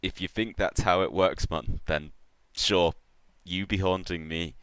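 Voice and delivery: lightly voiced amused catfish baron; a hint of an unbothered rogue; Baron Vol. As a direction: humour an empty threat, smiling. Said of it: "smile and goes".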